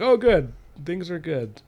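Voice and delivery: high, lightly acted relief; mock relief. Retelling the moment all seems safe, high mock relief. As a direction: pitch it up as if all is well. Voicing false relief in story.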